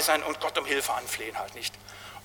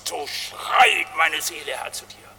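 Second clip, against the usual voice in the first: dramatic psalm cry; slower than usual. Acted. Preacher acts stag-like cry.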